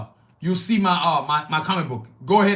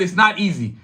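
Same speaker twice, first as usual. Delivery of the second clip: "it's not easy" with firm weight on "not"; stressed for emphasis; 3 dB louder than usual. Real, not acted. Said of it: "I stress the word".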